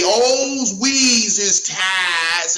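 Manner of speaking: drawn-out slow mock dialect shouted out; mock broken dialect. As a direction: ham up a patronizing politician's fake slang, very slowly. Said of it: "act like th-, that everyone black say".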